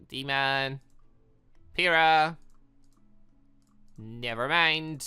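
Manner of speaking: normal talking voice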